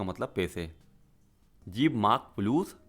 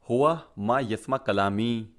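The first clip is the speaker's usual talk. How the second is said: हुआ मा यस्मा कलामी spelled out slowly, word by word; slow it down so learners catch each word; slow teaching demo; slower than usual. Shown as a demonstration. Teacher modelling the Arabic sentence for students, slow and deliberate. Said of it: "इसको आप ऐसे भी बोल सकते हैं".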